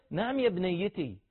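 affectionate parent's answer; tender reply. Shown as a demonstration. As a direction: linger warmly on يا بنيتي. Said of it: "تكلمك بنتك".

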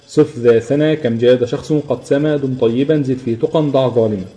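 slow, measured mnemonic verse; unhurried classical Arabic poem line; verse recitation. Shown as a demonstration. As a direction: recite it word by word at a slow pace.

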